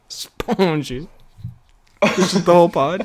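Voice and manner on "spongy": mock French accent. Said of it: "most pivotal Frenchie scene".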